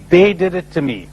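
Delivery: they pressed as the one to blame; stress on they. Shown as a demonstration. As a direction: lean on they, falling close.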